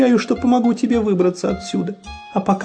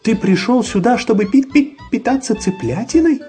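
frightened chick; 10 semitones higher, 3 dB louder than usual. A narrator's reading. Chick frightened asks fox.

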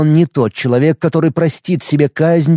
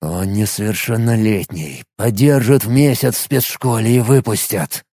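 low grim man; 5 semitones lower than usual. Acted. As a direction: speak low and dark as the angry detective. Matvey's voice in dialogue.

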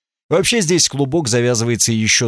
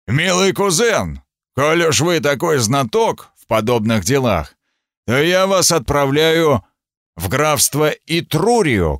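roaring angry king; 3 semitones higher than usual. Acted. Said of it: "прорычал, как разъярённый зверь".

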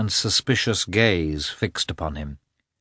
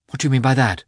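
cried out; 5 semitones higher, 5 dB louder, much faster than usual. A narrator's reading. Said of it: "she cried".

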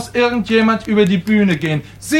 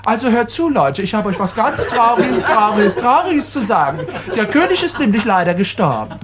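overacted announcement; 3 semitones higher than usual. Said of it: "ich werde wahnsinnig".

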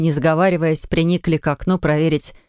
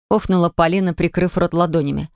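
plain reading voice

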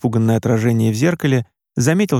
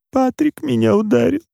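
a mother's voice, much higher, forced out between sobs; 11 semitones higher than usual. A narrator's reading. Mother confessing to her son between sobs, her voice much higher. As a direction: get the words out between sobs, pitched high. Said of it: "между всхлипами выговорила мама".

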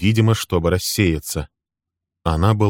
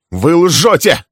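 high, loud cry of denial; furious shout; 11 semitones higher, 8 dB louder, slower than usual. A narrator's reading. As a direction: hurl the accusation back. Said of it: "крикнул Суттон".

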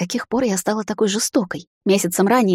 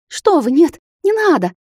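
much higher, loud panicked squeal; hysterical shriek; 10 semitones higher, 5 dB louder than usual. A narrator's reading. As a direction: shriek in terror as the ice nears. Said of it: "истерически взвизгнула девица".

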